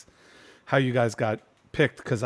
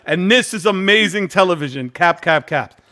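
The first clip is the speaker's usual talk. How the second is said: mock hype reading; 3 semitones higher, 5 dB louder than usual. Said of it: "that's what it said".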